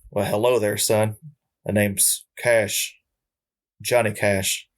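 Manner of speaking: Impression of a country singer. Ghost of a famous singer greeting him in the night, lightly imitated. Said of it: "I apologize for not getting his accent right".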